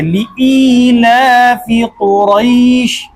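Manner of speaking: लिईलाफि with the hamza and kasra clearly sounded; correct hamza. Shown as a demonstration. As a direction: give लिईलाफि its full hamza-i. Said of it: "हमजा जेर ई जो है". (लिईलाफि में हमज़ा ज़ेर साफ़)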